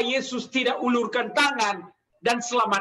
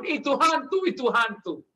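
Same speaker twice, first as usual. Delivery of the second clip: mock frightened cry; 2 semitones higher than usual. Preacher retells disciples taking Jesus for a ghost, mock frightened cry. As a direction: mildly act out panicked disciples. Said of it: "mereka teriak karena takut".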